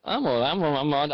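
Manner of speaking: words through a yawn; sleepy yawn. Real, not acted. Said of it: "I yawn all the time".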